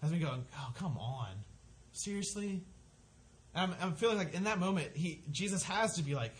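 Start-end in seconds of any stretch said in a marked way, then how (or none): 0.6-2.6 mild mock exasperation; mad at God. Man with mouth pain complaining to God, mildly exasperated. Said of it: "has me mad at God".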